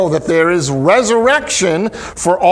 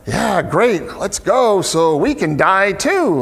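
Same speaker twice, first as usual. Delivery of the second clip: sarcastic; 3 semitones higher, slower than usual. Retold or imitated. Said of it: "could be almost sarcastic".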